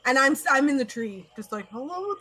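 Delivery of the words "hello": high-pitched hello without yelling; unshouted hello from above. Acted. Adventurer in a tree greeting a stranger, high but unshouted. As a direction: pitch it up, keep the volume ordinary. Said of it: "but I'm not super loud. I'm not yelling".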